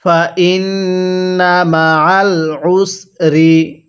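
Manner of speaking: stretched syllables, measured Arabic reading; slow recitation. Shown as a demonstration. Teacher models the word slowly for learners to copy. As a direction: draw out ওয়া র ফা না evenly. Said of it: "কিভাবে পড়ব?".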